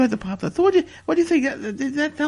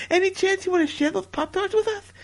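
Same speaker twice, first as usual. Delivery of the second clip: laughing; 5 semitones higher than usual. Real, not acted. Laughing while asking for Pop-Tarts.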